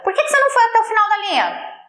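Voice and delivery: high, fast exasperated question; mock scolding. Teacher confronting a student over a broken line, exasperated mock scolding. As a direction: demand an explanation, pitched high.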